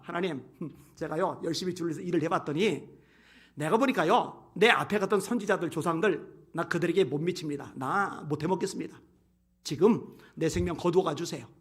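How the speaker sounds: soft, subdued confession; weary resignation. Acted. Preacher as Elijah telling God he cannot go on, quiet resignation. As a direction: give up quietly, worn out. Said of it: "이러고 있는 거예요".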